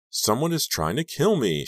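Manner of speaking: high, choked and dark; grim, strangled statement. A narrator's reading. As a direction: force the words out, choking. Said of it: "she said darkly, choking on the words".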